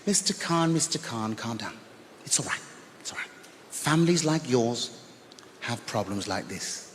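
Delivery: calm him down icily; teacher coldly soothing the uncle. Retold or imitated. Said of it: "she said to me".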